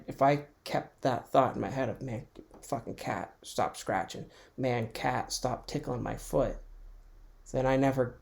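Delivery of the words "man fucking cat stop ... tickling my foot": grumbling. Retold or imitated. To the cat, half-asleep, a soft annoyed grumble. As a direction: mutter it like you're half asleep.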